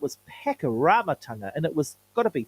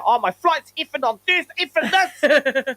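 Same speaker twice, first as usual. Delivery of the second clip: mock complaining; 9 semitones higher, 4 dB louder than usual. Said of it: "And then I".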